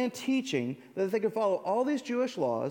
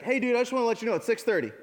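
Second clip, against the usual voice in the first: 1 cheery fast jogger; 5 semitones higher, 4 dB louder, much faster than usual. Pretend.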